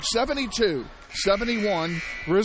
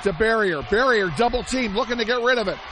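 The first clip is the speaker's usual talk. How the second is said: tense play-by-play. Real, not acted. Radio announcer calling the final possession to fans, rising urgency. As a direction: build the tension on each pass.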